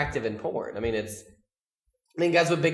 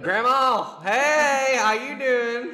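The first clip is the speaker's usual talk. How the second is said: pitched up Southern drawl calling out to grandma; southern drawl greeting grandma; 9 semitones higher, 4 dB louder, much slower than usual. Pretend. Calling grandma on the phone, high Southern drawl. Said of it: "I'll even get more fucking southern".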